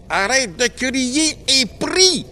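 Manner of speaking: slow, loud, high bellow; yelled order. Acted. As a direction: bark a slow stern command. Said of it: "hurla un des frères". (ordre hurlé, lent et fort)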